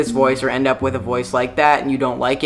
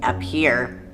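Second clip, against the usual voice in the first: slow demo of a top-of-throat placement; voice placed up high; 2 semitones lower, 4 dB quieter than usual. Shown as a demonstration. Vlogger contrasting the voice with their regular one, top-of-throat. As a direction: move the voice up out of the chest into the upper throat. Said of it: "I put my voice up here".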